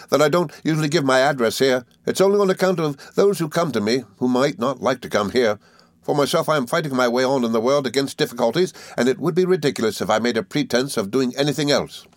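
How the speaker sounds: put-on high, eager old schoolfellow; Traddles, good-tempered. A narrator's reading. Traddles welcoming his old friend, high and good-tempered. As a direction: explain earnestly in a lifted character voice.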